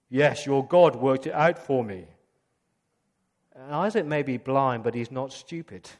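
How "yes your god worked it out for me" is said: louder lie. Retold or imitated. Jacob lying to his father.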